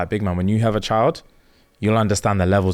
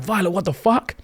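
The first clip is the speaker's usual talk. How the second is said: higher-pitched, incredulous rising question; retold shock; 9 semitones higher than usual. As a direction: act out a disbelieving reaction. Acts out his shock at Violet.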